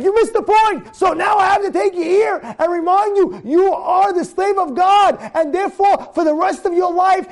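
high, impassioned preaching, building to a shout; fervent sermon rebuke to the listener; rising preacher's rebuke. Acted. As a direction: drive it home like a sermon climax.

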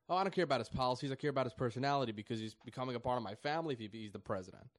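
fast, loud whiny mockery; mock emotional voter. Commentator mocking left-wing voters, fast and whiny. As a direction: rattle it off like a petulant voter. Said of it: "coming out against President Trump".

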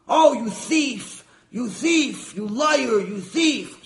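furious shouting at a thief, slow and loud at first; enraged stingy husband bellowing; yelling. Acted. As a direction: scream the accusations at yourself in the mirror. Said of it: "hears him yelling and screaming".

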